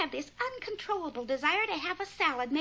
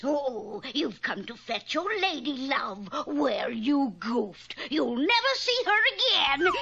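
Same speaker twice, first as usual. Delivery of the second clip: a hint of a gloating witch, lower; low taunting witch voice; lightly voiced witch; 5 semitones lower than usual. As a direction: taunt him as a mocking old witch.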